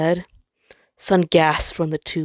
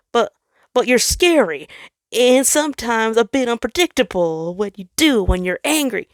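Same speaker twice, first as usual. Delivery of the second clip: nervous explanation; 6 semitones higher, 4 dB louder than usual. Acted.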